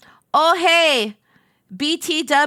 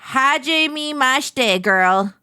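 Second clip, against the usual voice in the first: happy greeting; slower than usual. Acted. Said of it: "She said happily".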